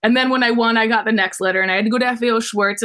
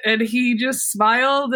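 choked up; slower than usual. Real, not acted. Still moved after the tears.

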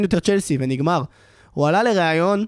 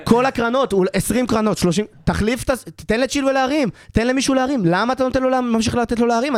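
exasperated rant; 6 semitones higher than usual. Real, not acted. Fan venting to co-hosts about the corners, higher and exasperated. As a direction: vent at the coach's choices.

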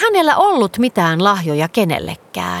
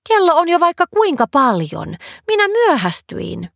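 higher, startled, slowing on the last words; 8 semitones higher than usual. A narrator's reading. Girl Nelli realizing she's late, startled. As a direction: jolt up in alarm at the time. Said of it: "Nelli hätkähti".

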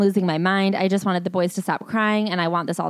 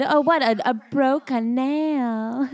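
slow mocking drawl; 6 semitones higher, much slower than usual. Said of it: "mocking the nail complaint".

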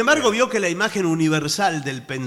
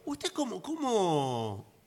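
hushed; 2 semitones lower, 10 dB quieter than usual. Pretend. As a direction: lean in and drop to a hush. Intimate question, hushed.

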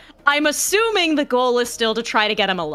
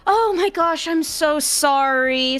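hasty apology; 7 semitones higher than usual. Acted. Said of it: "pretending as if I don't notice her".

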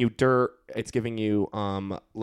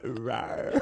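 cute rawr; 2 semitones lower, 4 dB quieter than usual. Retold or imitated. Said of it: "a little Gabby that went".

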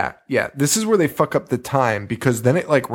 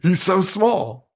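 cutesy high voice; 7 semitones higher, slower than usual. Pretend. Cooing over tiny Paul.

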